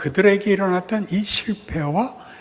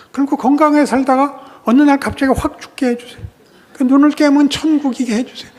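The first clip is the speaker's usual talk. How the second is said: higher, louder mocking begging voice; mock pleading prayer; 7 semitones higher, 4 dB louder than usual. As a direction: parody a whiny petitioner. God mimics people's selfish prayers.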